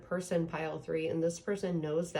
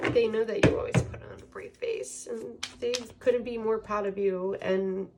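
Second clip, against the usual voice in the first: choked up; 4 semitones higher than usual. Real, not acted. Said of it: "I'm getting emotional".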